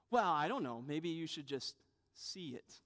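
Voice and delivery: imitated coy child; mock-innocent suggestion to Dad; subtle hint. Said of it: "We try these subtle ways".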